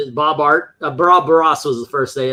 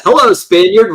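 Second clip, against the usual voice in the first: put-on Sean Connery Scottish accent; 5 semitones higher, 7 dB louder than usual. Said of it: "Sean Connery doing the Spanish accent".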